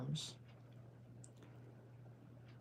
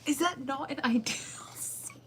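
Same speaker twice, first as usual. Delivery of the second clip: whisper; 7 semitones higher than usual. Real, not acted. Awed at seat.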